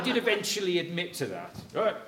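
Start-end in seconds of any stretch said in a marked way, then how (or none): 1.7-2.0 higher, louder mock chatter of parents; gossiping parents. Son imitating parents gossiping after video call cuts out, higher and louder. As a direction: ham it up like parents who think he's gone. Parents thinking he can't hear.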